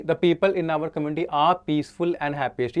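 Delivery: slow dictation of the question; slow question read. Shown as a demonstration. Teacher reading the next question aloud, slowly. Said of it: "क्योंकि".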